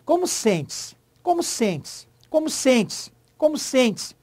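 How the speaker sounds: "Como sente-se" repeated high and insistent, falling on the end; ear test of SENTE-SE. Shown as a demonstration. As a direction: hammer out "sente-se" high, dropping at the end each time. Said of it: "dá pra provar isso pelo ouvido". (repetição insistente e aguda de "sente-se")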